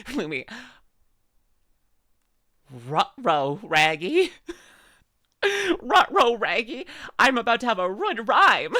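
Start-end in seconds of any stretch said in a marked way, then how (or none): 2.9-4.3 rough cartoon dog voice, leaning on Ruh-roh; Scooby-Doo's rough dog voice; Scooby-Doo impression. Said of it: "ruh-roh raggies". 5.8-6.8 much higher, louder, laughing Ruh-roh; high, loud, laughing Scooby-Doo voice; squeaky Scooby-Doo. Retold or imitated. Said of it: "ruh-roh raggies".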